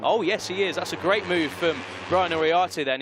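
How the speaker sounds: real excitement at the overtake; excited. Real, not acted. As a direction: lift the voice for the big pass. Overtake on final corner.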